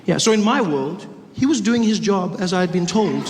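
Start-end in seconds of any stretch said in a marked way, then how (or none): none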